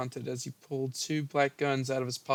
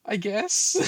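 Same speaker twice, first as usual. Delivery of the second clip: laughing explanation; 8 semitones higher, 8 dB louder, slower than usual. Real, not acted.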